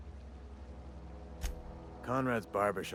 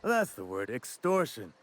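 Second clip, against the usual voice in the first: loud, punched burst of recognition; sudden realization; 3 semitones higher, 5 dB louder, slower than usual. Acted. Schemer finds the word he was after, sudden loud realization.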